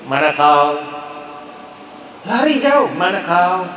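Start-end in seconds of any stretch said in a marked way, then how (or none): 0.1-0.8 Kota Kinabalu slang. Shown as a demonstration. Lecturer showing the harsh Kota Kinabalu slang, Sabah accent. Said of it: "Slang K K". 3.0-3.7 a light Sabah question, kau stressed; Kota Kinabalu slang. Shown as a demonstration. Lecturer repeating the Kota Kinabalu slang, Sabah accent. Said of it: "Slang K K".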